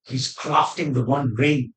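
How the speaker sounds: low, slow hushed scheming tone, lightly done; mock the villain's sly secret-telling; conspiratorial. Mocking a trailer villain, lightly conspiratorial. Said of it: "the way that he's sort of conspiratorially saying".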